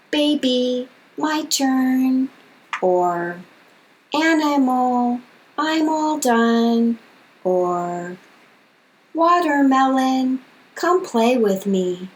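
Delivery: slow, sing-song, each syllable separated; slow syllable tapping. Shown as a demonstration. Therapist modeling words for a toddler, slow syllable-by-syllable. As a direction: spell out each syllable in a gentle child-directed voice. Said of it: "tap only the number of prongs you need".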